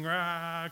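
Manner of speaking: half-hearted wordless cry; mild mock shriek. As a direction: imitate a shriek without the volume.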